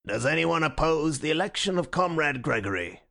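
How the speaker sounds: toneless chairman's voice; the chairman intoning by rote; colorless. Acted. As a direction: speak like an automaton. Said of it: "said in a colorless voice".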